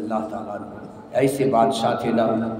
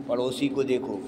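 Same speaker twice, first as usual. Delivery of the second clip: softly; 3 semitones lower, 9 dB quieter than usual. Real, not acted. Repeated phrase, soft then loud.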